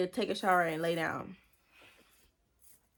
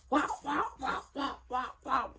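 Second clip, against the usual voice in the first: quick high smacking sound effects; imitated punch noises; 5 semitones higher than usual. She acts out fighting him back, punchy noises. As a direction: sound out each blow as it lands.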